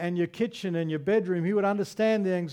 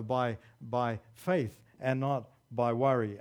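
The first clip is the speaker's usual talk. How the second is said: calm faith; 5 semitones lower, 3 dB quieter than usual. Acted. Pastor showing how faith clears the air, soft and calm. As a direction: lower and softer, easing down.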